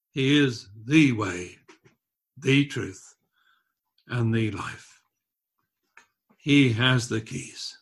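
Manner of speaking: slow deliberate. Acted.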